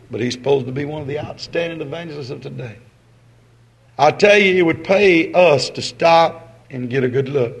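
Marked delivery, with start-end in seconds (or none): 4.0-7.6 emphatic preaching. Real, not acted. Preacher presses the point.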